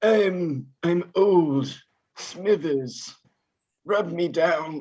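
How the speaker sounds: lightly voiced wheezy Mr Burns; a hint of Mr Burns; Mr Burns impression. Shown as a demonstration. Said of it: "That's Burns".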